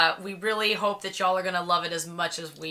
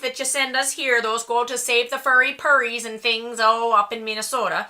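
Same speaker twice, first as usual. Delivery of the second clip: put-on terrible Minnesota accent; 3 semitones higher than usual. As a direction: play up a bad Minnesota accent. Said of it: "that was a terrible accent".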